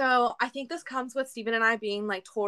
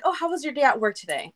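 imitating partner's question; 4 semitones higher, 3 dB louder than usual. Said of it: "he'll be like".

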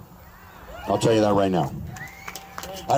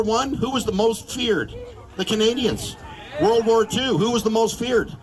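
rousing shout; 7 semitones higher than usual. Real, not acted. Rally crowd, rhetorical build-up.

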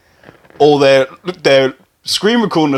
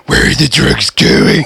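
put-on French accent; 3 semitones lower, slower than usual. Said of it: "smash this French one".

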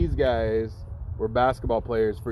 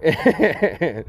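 laughing; 3 semitones higher than usual. Real, not acted. Laughs heard on lines.

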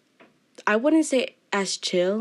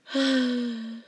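mock sigh; 4 semitones higher than usual. Acting out hurt feelings, then kidding.

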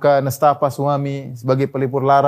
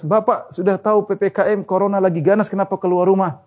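quoting officer; 6 semitones higher than usual. Retold or imitated. Officer scolds man in joke.

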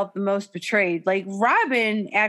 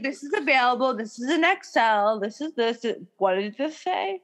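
imitating Mary selling; 3 semitones higher than usual. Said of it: "she'd be like".

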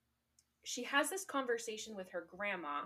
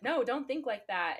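scolding; 4 semitones higher, 8 dB louder than usual. Retold or imitated. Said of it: "her grandma's like".

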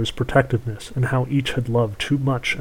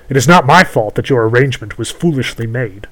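witch voice; 6 dB louder than usual. Acted. Witch scolds the prince.

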